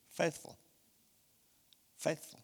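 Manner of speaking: softly, almost under the breath; hushed. Acted. Pastor naming his new stone in heaven, hushed. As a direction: let the word fall away tenderly.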